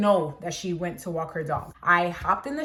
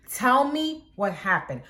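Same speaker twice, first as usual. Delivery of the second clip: slow, firm demand, pitched up; half-raised yell, drawn out; retold yell; 4 semitones higher, slower than usual. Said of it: "I have to yell at her".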